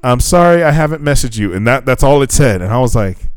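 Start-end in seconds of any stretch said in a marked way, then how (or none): 0.0-1.5 lightly raised, sweet voice; a hint of a bubbly girl; mock girly text voice. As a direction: read her message in a higher sweet voice. Quoting her text message.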